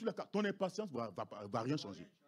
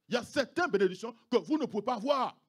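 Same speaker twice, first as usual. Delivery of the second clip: louder, weighted preaching repeat; loud emphatic repeat; 4 semitones higher, 8 dB louder than usual. Acted. Pastor warning the congregation, loud emphatic repeat. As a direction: hammer each word home. Repeated line, second take.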